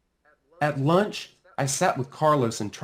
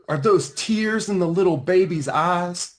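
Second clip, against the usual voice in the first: a lightly voiced sneering bully, a bit higher; mocking bully; 7 semitones higher, 3 dB louder than usual. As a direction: tease him about his tears. Bully mocks crying boy.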